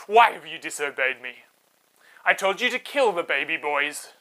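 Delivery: loud demanding accusation; angry king. Acted. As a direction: demand an answer from the midwives. King confronts the midwives.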